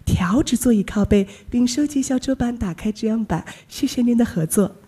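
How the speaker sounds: flight attendant. Acted. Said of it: "学学啊".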